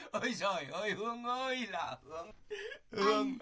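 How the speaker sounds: crying out her name in hammed-up grief; wailing cry. Husband crying over his fainted wife, wailing.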